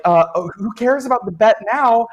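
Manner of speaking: loud, high frantic shout; frantic yelling. Acted. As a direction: yell it in a blind panic. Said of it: "And they're like".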